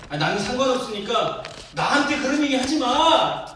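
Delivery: high, loud mock brush-off; brusque refusal. Preacher mimicking an uncaring God refusing pleas, loud brusque dismissal. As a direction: act out waving someone away, exaggerated. Acting out a mistaken reading of God.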